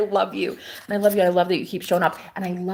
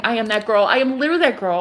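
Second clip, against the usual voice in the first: bold, louder self-declaration; confident affirmation; 3 semitones higher, 5 dB louder, faster than usual. Pretend. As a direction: claim it like it's already true. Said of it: "I'm already saying".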